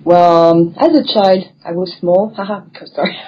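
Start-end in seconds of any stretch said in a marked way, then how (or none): 2.4-3.3 giggling through an apology; sheepish high giggle; nervous laugh. Real, not acted. Laughs after "I was small.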